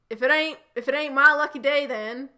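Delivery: hammed-up Texan twang; thick American accent. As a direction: play it as a creepy Texan flirt. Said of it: "in a very thick American accent".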